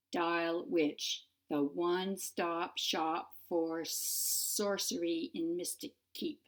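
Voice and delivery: stiff, businesslike recorded greeting; slow, stiff voicemail message; stiff and efficient. Acted. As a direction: read it like a dry answering machine. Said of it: "Her voice sounded stiff and efficient".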